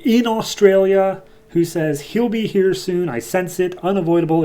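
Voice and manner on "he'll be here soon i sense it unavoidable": higher, lightly voiced fish demon; a hint of an eerie sea creature foretelling. Fish demon in Australia sensing who comes, in a lightly voiced higher creature voice. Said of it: "some weird fish demon looking thing".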